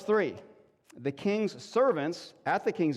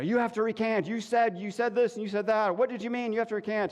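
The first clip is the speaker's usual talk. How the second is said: higher, insistent accuser pressing him; accusing rabbi; 6 semitones higher than usual. Retold or imitated. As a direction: press him hard to take it back. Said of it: "he's being accused by Rabbi Benjamin".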